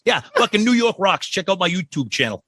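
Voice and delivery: imitating the New York guy. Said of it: "Be like".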